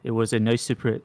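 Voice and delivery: put-on botched Irish accent, sounding like Donald Trump; a softly attempted, unconvincing Irish accent; failed Irish accent. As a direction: try Irish and miss, landing near Donald Trump. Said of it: "I sound like Donald Trump".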